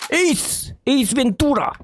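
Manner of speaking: high, slow announcer intro; esports caster. Acted. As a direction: announce it like a show.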